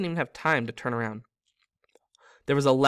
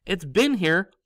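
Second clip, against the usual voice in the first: higher, louder, slow delight; 6 semitones higher, 7 dB louder than usual. Acted. Ron to Harry about the car, delighted. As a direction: marvel at it happily. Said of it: "said Ron delightedly".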